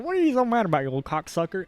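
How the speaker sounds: high taunting jeer at a snake; mock the snake, high then dropping. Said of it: "He's like".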